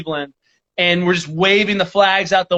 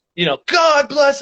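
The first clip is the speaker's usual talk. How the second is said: put-on yell, pitched much higher; 8 semitones higher than usual. Retelling riding past people while perched out the window, re-enacting a yell. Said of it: "just yelling".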